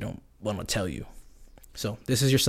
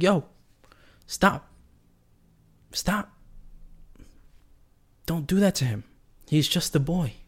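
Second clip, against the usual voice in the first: calling off the dogs; 7 semitones higher than usual. Retold or imitated. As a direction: shout them off the puppy. Yelling at husky mounting dog.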